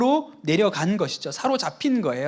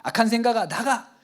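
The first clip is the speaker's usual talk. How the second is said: commanding rebuke; 3 semitones higher than usual. Retold or imitated. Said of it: "이렇게".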